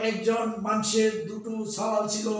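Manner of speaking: Rajshahi dialect. Shown as a demonstration. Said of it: "Rajshahi অঞ্চলের এই ভাষাটি".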